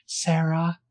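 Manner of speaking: slow, halting answer; hesitant. Retold or imitated. Scared girl giving her name to the cop, hesitant. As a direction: say it slowly, unsure. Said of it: "with some hesitation".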